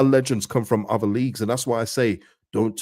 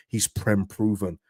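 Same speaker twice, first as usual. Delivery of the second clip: mocking quote; 4 dB quieter, slower than usual. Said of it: "I can't stand the term".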